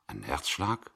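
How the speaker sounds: quiet disbelieving question, rising at the end; stunned echo. A narrator's reading. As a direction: repeat it as if you can't believe it.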